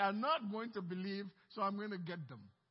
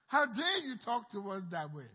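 indignant; 5 dB louder than usual. Acted. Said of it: "They got very angry".

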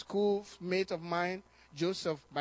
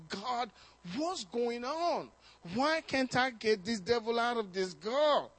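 exasperated plea; 5 semitones higher than usual. Retold or imitated. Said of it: "I was really exasperated by this".

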